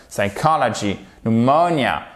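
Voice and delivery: "Psychology, pneumonia" with COL and MO stressed; stress on second syllable. Shown as a demonstration. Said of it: "on fait bien l'accent tonique".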